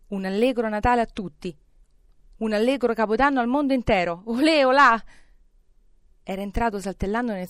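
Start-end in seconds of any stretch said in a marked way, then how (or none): 0.1-5.0 festive cheer building to a high, loud whoop; exuberant, rising celebration; jubilant calling. A narrator's reading. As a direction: proclaim holiday wishes, building to a shout. Scrooge calls festive greetings to everyone.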